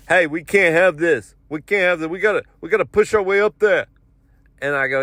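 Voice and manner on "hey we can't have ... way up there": mock irritated urging; irritated New Yorker. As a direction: act out a pushy, fed-up guy in line.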